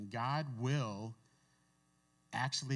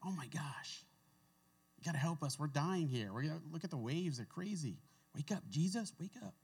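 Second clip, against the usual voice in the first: high, frantic pleading for help; frightened men begging Jesus to wake, much higher; panicked disciples; 7 semitones higher than usual. Retold or imitated. Disciples in the storm shouting at sleeping Jesus, high panicked pleading. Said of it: "I'm sure it was screaming and yelling".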